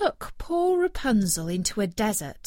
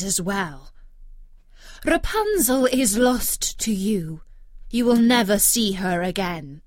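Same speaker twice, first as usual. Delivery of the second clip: mocking; 3 dB louder than usual. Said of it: "she cried mockingly".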